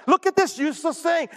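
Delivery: scornful villager. Retold or imitated. Preacher voicing villagers scorning a bruised reed. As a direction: scoff at the worthless reed.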